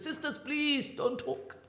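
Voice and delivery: sermon hush. Retold or imitated. Stops sermon to hush sisters.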